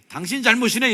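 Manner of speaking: loud, high, blaming outburst; startling accusation. Shown as a demonstration. Preacher shows congregation how not to address a neighbour, loud accusation. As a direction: snap the blame out at full volume. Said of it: "이렇게 하지 말고".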